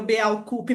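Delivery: "Beaucoup" mangled as "be-au-ku-pi"; mock the bad reading of "Beaucoup"; horrible pronunciation. Shown as a demonstration. Teacher to students mocking the bad pronunciation. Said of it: "que pronúncia horrível".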